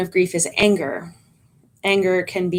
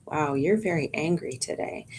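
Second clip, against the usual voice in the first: very calm tone; 2 semitones lower, 8 dB quieter than usual. Shown as a demonstration. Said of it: "That is a very calm tone of voice".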